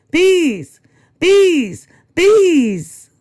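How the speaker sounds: high, loud screams of panic; panicked scream. Acted. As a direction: shriek it as the swarm comes. Maisie panics at bee swarm.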